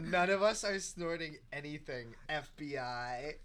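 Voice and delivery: guilty-sounding denial; caught red handed. Pretend. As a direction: deny it like you're caught. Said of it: "Why do you sound so guilty?".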